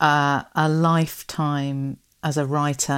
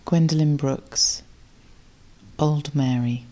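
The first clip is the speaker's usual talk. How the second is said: poem reading. Acted. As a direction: let each line land, unhurried, like a gift. Reads the gift poem aloud.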